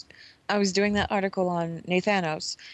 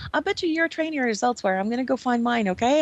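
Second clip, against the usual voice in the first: higher, fast chirpy sidekick voice; chatty buddy; 4 semitones higher, faster than usual. Retold or imitated. Little buddy leaving to find his training area, fast and higher. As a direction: rattle it off eagerly. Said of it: "he's like".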